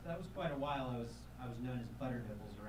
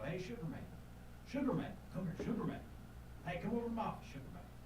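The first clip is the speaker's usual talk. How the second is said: higher, sing-song nickname call; calling over radio; 6 semitones higher, faster than usual. Retold or imitated. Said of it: "he'd call over the radio".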